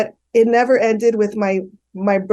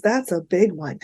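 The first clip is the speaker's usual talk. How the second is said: laughing; 3 dB quieter than usual. Real, not acted. Laughing about forgiveness.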